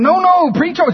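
high, loud imitation of Helena; lightly voiced urging; mock Helena. Preacher imitates Helena urging him to keep preaching, high voice. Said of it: "She's going".

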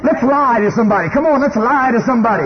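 body urging you to steal and lie; the sinful body. Acted. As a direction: tempt like a sly craving body. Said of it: "and it's going".

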